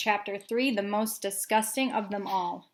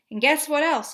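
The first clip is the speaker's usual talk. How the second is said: put-on eager kid; 6 semitones higher, 5 dB louder than usual. Excited little boy.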